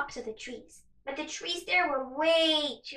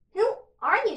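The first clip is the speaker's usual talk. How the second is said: bashful; 6 semitones higher than usual. Acted. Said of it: "she replied bashfully".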